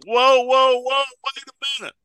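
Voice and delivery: high-pitched protest as an alarmed disciple; acted-out high-pitched objection; Peter. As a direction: halt them with high, startled objections. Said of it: "this time it's Peter went".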